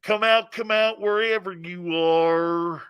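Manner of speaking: slow redneck drawl, singsong; put-on redneck taunting call. Shown as a demonstration. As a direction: stretch the last words like a redneck. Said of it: "I got that redneck thing down".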